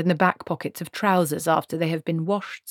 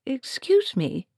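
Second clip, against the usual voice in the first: high, slow, hesitant excuse me; timid interruption; 8 semitones higher, slower than usual. Acted. Treatle nervously interrupting the wizard and witch, timid. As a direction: raise a nervous hand.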